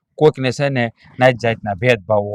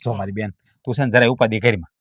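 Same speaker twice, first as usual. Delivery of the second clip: gently soothing; 4 dB quieter than usual. Acted. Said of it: "પ્રેમથી બોલાય".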